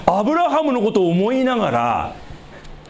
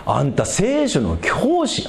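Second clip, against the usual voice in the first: slow Osaka-tinged 'anta' quote; Osaka-flavoured rebuke to a Bible teacher; Osaka dialect; slower than usual. Retold or imitated. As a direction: slip into Kansai dialect for Jesus's rebuke. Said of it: "大阪弁っぽくなったけど".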